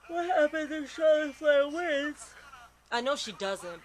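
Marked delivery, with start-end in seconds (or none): 0.1-2.3 loud, slow, high excited question; loud, drawn-out disbelief; excited shout. Real, not acted. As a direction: demand an answer from the screen.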